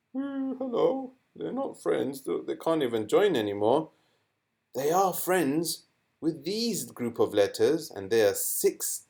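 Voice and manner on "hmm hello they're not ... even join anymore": voicing the letter noon. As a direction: play the noon sakina talking. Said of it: "they're not friends with the al".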